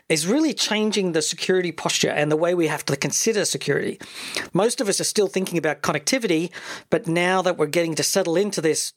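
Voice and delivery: measured presenter read, lifted openings; podcast host intro. Acted. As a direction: introduce the show with punched key words. Reads the show's introduction.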